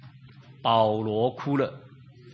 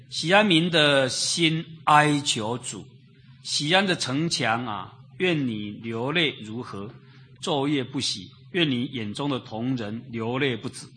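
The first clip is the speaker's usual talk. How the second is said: scripture reading; slower than usual. Acted. Reads scripture verse aloud.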